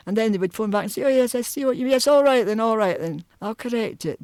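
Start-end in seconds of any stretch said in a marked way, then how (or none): 1.0-4.2 Edinburgh lawyer grudgingly giving in, higher; reluctant agreement, trailing down. Retold or imitated. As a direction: concede it as if it costs you. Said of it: "very reluctantly".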